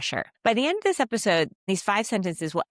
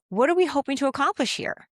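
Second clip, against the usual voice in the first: calm question; 6 semitones higher than usual. Shown as a demonstration. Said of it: "You just say it calmly".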